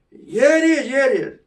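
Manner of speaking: high, eager insistence; insisting. Retold or imitated. Kids insisting to the doubting teenager, high and eager.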